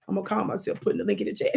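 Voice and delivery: quick, whispered joking aside to herself. Real, not acted. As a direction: mutter it fast under your breath, amused. Self-mocking aside while posting link.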